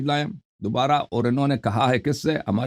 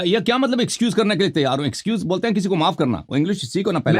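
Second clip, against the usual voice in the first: higher, scornful mockery; mocking lecture on a word; 5 semitones higher than usual. Real, not acted. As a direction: sneer at his English, pitched up. Mocking opponent's English.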